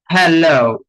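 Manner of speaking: হ্যালো with a drawn-out English "-lo" glide; correct pronunciation demo. Shown as a demonstration. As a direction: model হ্যালো slowly, ending on a long "oh" glide. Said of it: "কিন্তু জিনিসটা হবে হ্যালো".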